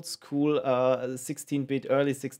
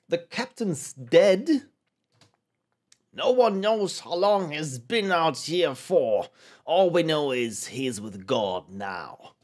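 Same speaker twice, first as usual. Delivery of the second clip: slow, solemn mock-British voice; poorly British character; slower than usual. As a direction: announce a death in a vaguely British accent. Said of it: "they all sound vaguely and poorly British".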